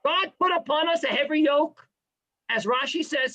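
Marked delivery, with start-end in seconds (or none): 0.0-1.9 mock complaining. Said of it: "You gotta come out of this year with a sour face".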